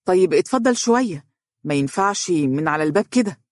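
puzzled invitation, lifted at the start; surprised. Acted. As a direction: caught off guard at the door. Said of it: "قال فارس بدهشة متسائلًا". (بدهشة وتساؤل)

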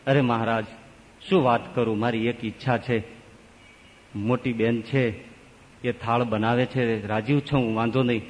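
sad pleading. Acted. Younger sister pleading through tears.

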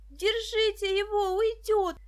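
put-on girl shrieking for them to grab the runaway; yelling. A narrator's reading. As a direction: scream to catch him. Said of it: "завопила Даша".

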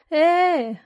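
sharp high indignant "eh"; indignant huff. Acted. Wife huffing indignantly at her husband. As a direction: huff out in protest. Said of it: "недовольно пыхтеть".

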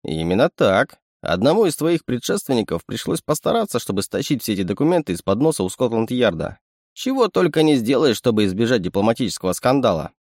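a sly little animal sidekick; sly chittering raccoon. Acted. Raccoon explains.

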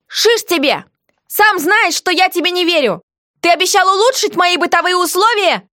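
high, defiant and mocking; a hint of stubborn scorn; defiant heroine. A narrator's reading. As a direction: taunt him from below. Bargaining heroine voiced high.

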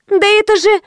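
high startled squeal. A narrator's reading. Karina recognises the heroine, high squeal. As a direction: squeak it out in shock. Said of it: "взвизгнула Карина".

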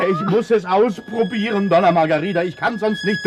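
pleading. Acted. Desperate pleading with Margarida.

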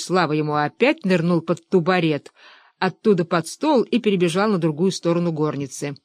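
plain reading voice

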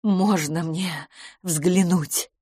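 slow, begging request; pleading. Acted. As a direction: plead slowly to see herself. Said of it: "взмолилась мисс Петтигрю". (умоляюще, медленно)

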